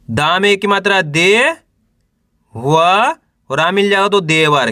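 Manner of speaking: teacher's spelling drill, held rising syllables; syllable-by-syllable sounding out. Shown as a demonstration. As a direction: sound out each letter for beginners to repeat. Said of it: "मेरे साथ साथ इसको repeat करना है".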